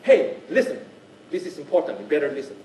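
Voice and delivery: emphatic call for attention; stressing to audience. Acted. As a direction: urge the audience to pay attention. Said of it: "you're actually stressing to the audience".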